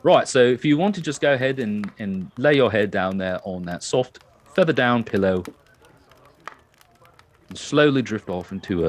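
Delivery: put-on light English accent; a hint of a soothing English accent. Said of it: "which is an English accent".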